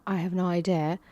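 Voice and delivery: "I have no idea" with a light British lilt; "I have no idea" in a barely British accent; hint of British. Shown as a demonstration. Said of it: "sounds British to me".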